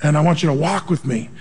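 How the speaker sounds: low, gently loving quoted voice; a touch of tenderness, low and even. Retold or imitated. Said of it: "God would lovingly say".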